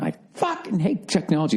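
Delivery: high-pitched mock yell on "fucking"; re-enacted street outburst. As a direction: act out blurting it at the top of your lungs, volume held back. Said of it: "I said at the top of my lungs".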